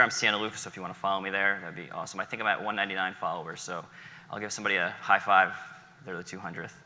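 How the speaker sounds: ordinary talk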